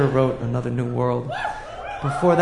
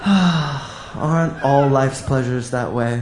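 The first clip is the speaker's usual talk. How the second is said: 1940s radio announcer; 3 semitones lower, slower than usual. Real, not acted. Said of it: "you become a nineteen forties radio announcer".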